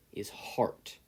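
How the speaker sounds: unvoiced hushed secret; a man confiding to a boy in a whisper. A narrator's reading. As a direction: lean in and breathe it. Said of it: "leaned in to whisper to the teen".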